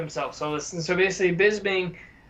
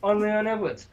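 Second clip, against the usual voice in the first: mock Birmingham accent. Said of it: "he's Leon Edwards because he's like".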